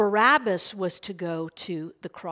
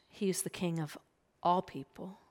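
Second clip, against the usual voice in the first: whispered aside, much softer; hushed aside; 6 dB quieter than usual. Real, not acted. Preacher to congregation, a whispered reverent aside. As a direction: breathe it to the congregation as a secret truth.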